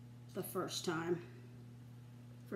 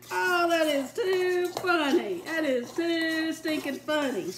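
laughing hard; 4 semitones higher, 5 dB louder, slower than usual. Real, not acted. Cracking up at her flour mishap.

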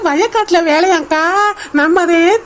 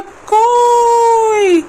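calling out; 4 semitones higher, much slower than usual. Acted. Calling out to older sister.

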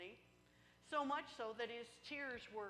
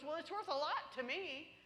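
frog pleading; 6 semitones higher, 5 dB louder than usual. Acted. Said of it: "and he goes".

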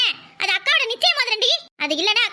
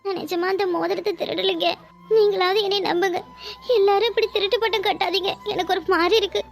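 tearful denial. Acted. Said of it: "இந்த மாதிரி அழறத நிப்பாட்டுங்க".

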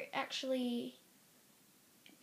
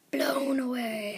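whispering; 4 dB louder, slower than usual. Real, not acted. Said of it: "I'm blown away".

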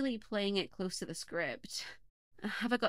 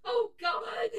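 high shrieking cry of horror; horrified scream; 3 dB louder, much slower than usual. Acted. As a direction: scream at what you've just found. Host finds burnt pet.

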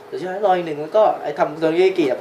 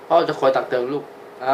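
father voice. Pretend. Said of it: "เสียงผมเปลี่ยนวะ".

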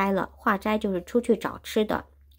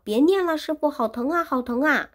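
high, loud cry of pain, begging; howling for mercy, much higher and louder; pained pleading; 9 semitones higher, 3 dB louder than usual. Acted. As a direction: plead with your master to stop the agony. Wukong begs master in pain.

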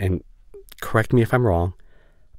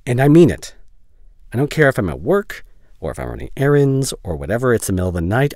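raised, higher, urgent insistence; emphatic insistence; 4 semitones higher, 5 dB louder than usual. Acted. Making a friend promise to call anytime, emphatic. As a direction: press it hard, pitch lifted.

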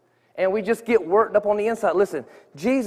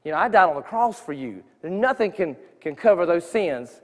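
gentle voice of God; 4 semitones lower, 4 dB quieter than usual. Retold or imitated. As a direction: say it gently, like God calling a lost man. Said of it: "I just felt God showing me".

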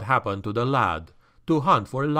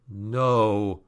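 gasped; 4 semitones lower than usual. Acted. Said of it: "he gasped".

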